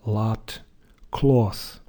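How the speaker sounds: American "lat" with an open ah, then "cloth"; American unrounded ah; American accent. Shown as a demonstration. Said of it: "some American".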